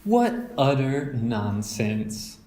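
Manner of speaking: slow, mild mock protest. Mother dismissing the cubs' witch talk, mildly protesting. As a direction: brush it off as silly, slowly. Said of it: "protested Mama".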